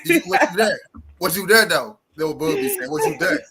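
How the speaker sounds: taunting, needling questions in a boxer's voice; mock Bud quote. Mocking the boxer's "did you see me" defense, lightly voiced. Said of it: "Bud said".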